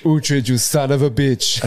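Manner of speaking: laughing mock yell. Laughing mock cry at Uhtred.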